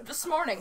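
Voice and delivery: "this morning" said as "the smorning"; run-together words. Shown as a demonstration. Friend explaining what they heard when little, "this morning" as "the smorning". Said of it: "I just thought it was".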